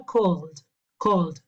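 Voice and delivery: "called" in one syllable, ending in l plus d; ED as voiced d. Shown as a demonstration. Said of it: "Se pronuncia cold".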